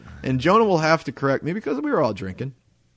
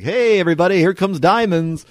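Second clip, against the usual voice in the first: loud, higher strip-club announcer; 6 semitones higher, 8 dB louder than usual. Acted. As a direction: bring on the next act. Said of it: "to talk to the D J".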